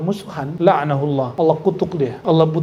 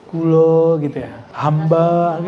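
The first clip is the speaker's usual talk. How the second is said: humble Javanese kulo; much slower than usual. Shown as a demonstration.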